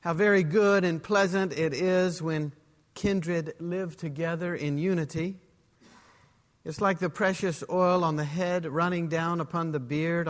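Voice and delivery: measured, solemn reading of a psalm; scripture reading. Acted. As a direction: read it as holy text, slowing at the end. Pastor reads the psalm aloud.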